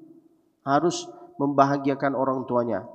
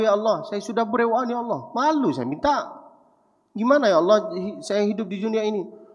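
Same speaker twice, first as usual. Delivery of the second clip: higher, a mild desperate plea to God; pleading prayer; 5 semitones higher than usual. Retold or imitated. Broke student praying alone at night, higher pleading. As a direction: beg God like you've run out of money.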